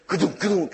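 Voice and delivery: mock thud of a body hitting the floor; imitated falling thud. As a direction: make a clunking crash noise. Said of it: "you'd hear this".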